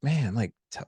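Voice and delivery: eager, impressed buddy tone; admiring. Shown as a demonstration. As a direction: ask like you think it's cool. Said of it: "when I use that voice tone".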